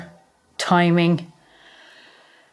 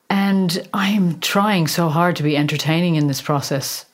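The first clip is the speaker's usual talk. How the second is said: whisper. Real, not acted. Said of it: "whispered aside".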